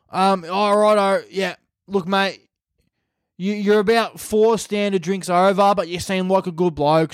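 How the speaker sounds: put-on friendly Australian cop voice. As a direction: play an easygoing Aussie officer. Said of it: "these are Australians breath testing you".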